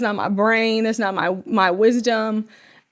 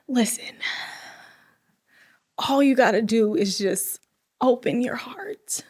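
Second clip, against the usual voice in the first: soft urging whisper; 5 dB quieter than usual. Retold or imitated. Urging the listener to open their heart, whispering. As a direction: lean in and whisper the invitation.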